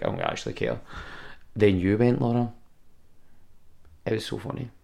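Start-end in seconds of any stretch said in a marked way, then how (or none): 0.0-0.8 deadpan Kiwi. Retold or imitated. Kiwi bungee guy unbothered.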